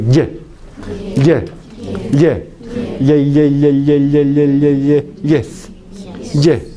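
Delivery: "ye" con la lengua tocando el paladar; Y con contacto palatal. Shown as a demonstration. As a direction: say "ye" with the tongue closed on the palate. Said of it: "el paladar. Hay un contacto". («ye» con cierre total en el paladar)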